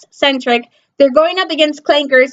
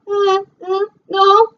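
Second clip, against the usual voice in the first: squeamish no; 5 semitones higher, slower than usual. Retold or imitated. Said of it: "the red ones are like".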